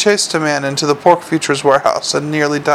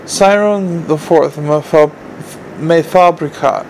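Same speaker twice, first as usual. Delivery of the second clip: reading aloud. A narrator's reading. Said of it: "he read aloud".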